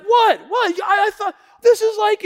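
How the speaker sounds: high, loud flustered comeback; hammed-up loud disbelief; defensive protest. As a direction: act out a husband caught out and protesting. Acts himself protesting to angry wife.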